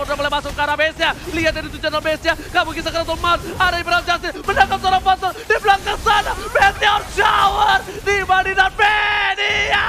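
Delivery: rising from fast to shouting; building hype. Acted. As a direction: build it up to a roar. Caster builds to climax.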